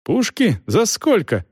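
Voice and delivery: high, alarmed questioning; agitated. A narrator's reading. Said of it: "Он заволновался".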